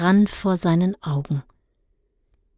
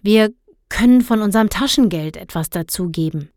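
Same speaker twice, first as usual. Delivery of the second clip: said aloud; 3 dB louder, faster than usual. Acted. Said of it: "Und dann sagte er laut".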